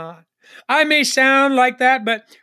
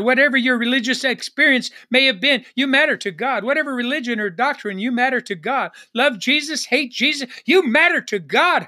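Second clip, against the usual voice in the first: higher, driving preacher's refrain; impassioned preaching; 3 semitones higher than usual. Real, not acted. Pastor assuring every listener they matter to God, impassioned preaching. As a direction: preach it in rising, rhythmic phrases.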